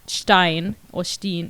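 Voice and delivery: "shtine" for Epstein, then "shteen" for Steen; both pronunciations contrasted. Shown as a demonstration. Speaker laying out two options, Epstein as "shtine", Steen as "shteen". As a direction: set Epstein as "shtine" against Steen with a long ee, slowly. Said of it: "So it's either Epstein or".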